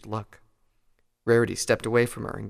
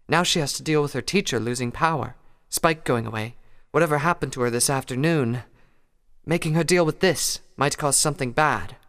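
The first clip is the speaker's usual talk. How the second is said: higher, lilting mare voice; Rarity voice; 5 semitones higher, 4 dB louder than usual. Acted. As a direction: voice Rarity with gentle concern. Rarity pleads with Applejack.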